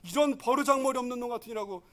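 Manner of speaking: loud, high angry scolding, fading at the end; father shouting at his son. Retold or imitated. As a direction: berate the rude elder son. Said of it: "이래도 무방합니다".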